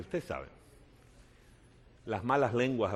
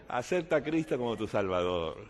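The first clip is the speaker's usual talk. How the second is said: sincere appeal. Shown as a demonstration. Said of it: "Lo dije allá, te lo digo a ti ahora".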